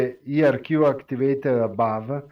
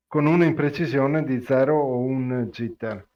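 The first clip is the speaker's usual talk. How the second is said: quick, run-together Italian; too fast; faster than usual. Real, not acted. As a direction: rattle through the Italian explanation quickly. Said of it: "because you said it fast".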